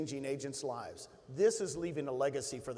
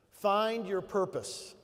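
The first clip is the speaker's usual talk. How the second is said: very slow, Find leaned on; drawn-out Find your purpose; slow emphatic repeat; 3 semitones higher, 4 dB louder, much slower than usual. Real, not acted. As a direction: repeat it slower so it sinks in. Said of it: "You might wanna take some notes".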